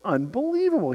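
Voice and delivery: normal talking voice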